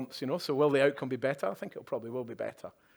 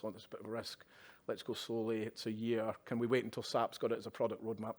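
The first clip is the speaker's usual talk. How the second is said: mock cautious; 3 semitones lower, 6 dB quieter than usual. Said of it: "we tend to be quite cautious individuals".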